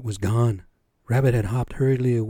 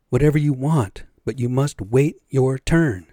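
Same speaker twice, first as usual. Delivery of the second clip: louder, firm scolding; stern rebuke; 3 semitones higher, 5 dB louder than usual. Acted. Everything maker scolding the owl who won't wait, firm and loud. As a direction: put the impatient owl in his place.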